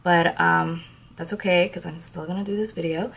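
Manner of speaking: sick, hoarse voice; raspy whisper. Real, not acted. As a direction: talk through a sore, raspy throat. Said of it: "Excuse my voice".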